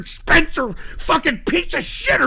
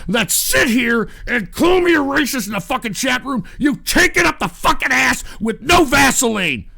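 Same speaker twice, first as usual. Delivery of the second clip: angry shout; 3 dB louder than usual. Real, not acted. Shouting insults at chat.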